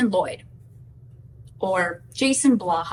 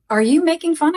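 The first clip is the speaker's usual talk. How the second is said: imitating offended anger, higher and louder; mock indignant challenge, pitched up; mad retelling; 7 semitones higher, 5 dB louder than usual. Husband suspects wife is mocking him, so mad. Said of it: "he was so mad".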